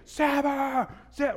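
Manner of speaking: a roaring voice calling the name out loud and high; booming call. Retold or imitated. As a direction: call the name like a voice thundering from within.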